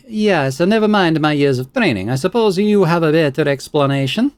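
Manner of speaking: high, indignant expert; offended scholar. Acted. Scholar challenges the player's doubt, high and indignant. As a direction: bristle at being doubted. Belasag voice.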